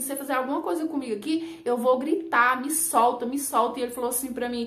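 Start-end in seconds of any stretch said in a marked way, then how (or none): none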